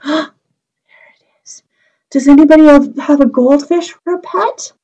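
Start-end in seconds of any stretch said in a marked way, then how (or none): 0.0-1.6 hushed discovery whisper; surprised whisper. Pretend. Teacher whispering to the children, hushed surprise. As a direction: breathe it like a secret found. Teacher gasps, finds goldfish.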